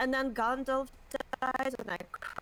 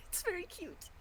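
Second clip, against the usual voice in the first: soft whisper through a laugh; 4 semitones higher, 9 dB quieter than usual. Real, not acted. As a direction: breathe it out in a hush.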